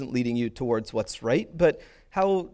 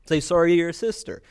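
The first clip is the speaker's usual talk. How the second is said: lightly acted parental order, a little higher; parent prompting apology; 4 semitones higher, 4 dB louder than usual. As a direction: tell a reluctant kid to apologise, lightly voiced. Voices parent making kid apologise.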